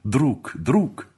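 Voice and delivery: high, fervent emotion, rising in force; slow down on the last words, overcome; ardent, drawn-out outpouring to a dear friend; moved to tears. A narrator's reading. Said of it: "говорил Адуев со слезами на глазах".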